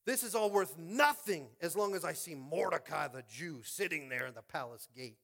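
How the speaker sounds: a hint of a gloating villain, high and loud; lightly voiced proud official bragging; boastful Haman. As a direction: crow about his honours. Haman's boastful quote acted out.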